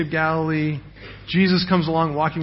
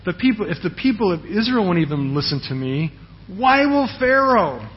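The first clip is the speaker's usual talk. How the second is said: exasperated Moses; 2 semitones higher than usual. Retold or imitated. Moses protesting to the Lord, voice climbing in disbelief. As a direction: pitch jumping up on why will Pharaoh, slowed.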